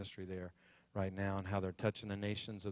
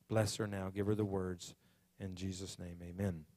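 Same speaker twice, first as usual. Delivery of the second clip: earnest prayer; 3 dB louder than usual. Real, not acted. Pastor prays over the guest speaker before her sermon, earnest prayer. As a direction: pray over someone with conviction, pausing between phrases.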